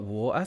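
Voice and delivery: "water" with the T dropped to a glottal stop; dad's accent. Shown as a demonstration. Streamer showing dad's accent, glottal T in "water". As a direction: swallow the T in "water". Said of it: "in my dad's accent".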